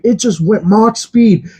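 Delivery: high, drawn-out imitation of amazement; excited pilot. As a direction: imitate a pilot who can't believe the speed. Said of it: "he's getting so excited".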